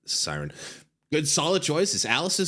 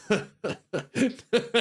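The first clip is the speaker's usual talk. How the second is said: luring spirit whisper; 10 semitones higher than usual. Pretend. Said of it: "my Siren impression".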